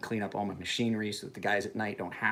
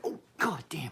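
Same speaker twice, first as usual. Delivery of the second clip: whispered surprised curse; a hint of hushed dismay; mock whispered curse; 5 semitones higher than usual. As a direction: breathe out the curse like you just found a tangle. Reacting to beard tangles.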